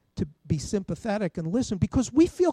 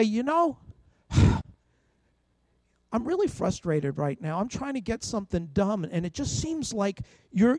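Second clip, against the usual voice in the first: calm frustrated admission. Shown as a demonstration. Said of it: "Whereas if I say".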